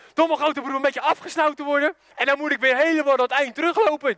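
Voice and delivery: high-pitched mock grievance; indignant complaint. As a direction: complain like a snubbed kid brother. Little brother's indignant complaint. (verongelijkt klagend, met hoge stem)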